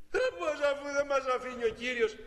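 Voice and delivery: put-on high, disbelieving little boy; doubtful child. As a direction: protest it can't be done. (παιδί που απορεί, δύσπιστα)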